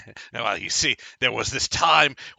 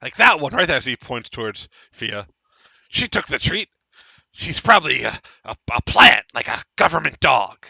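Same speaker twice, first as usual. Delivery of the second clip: excitable halfling, raised pitch; lightly voiced paranoid halfling; a hint of a jittery halfling; halfling npc voice; 5 dB louder than usual.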